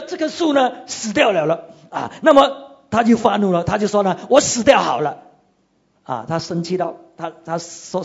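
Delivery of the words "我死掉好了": louder, sulky cry of Jonah; mock angry outburst. Jonah telling God he'd rather die, mock angry. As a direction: blurt it out like a sulking prophet.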